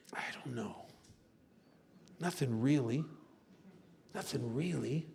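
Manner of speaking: low, soft, hesitant answer; small, lost mumble; helpless uncertainty. Acted. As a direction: answer faintly, with long pauses. Acting his answer to what's wrong.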